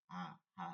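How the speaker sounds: low, grave হা with no air flowing; deep, airless ha. Shown as a demonstration. Teacher repeating the first ha, deep and airless. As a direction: keep হা deep, without breath. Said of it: "গম্ভীর আওয়াজে বাতাস চলবে না".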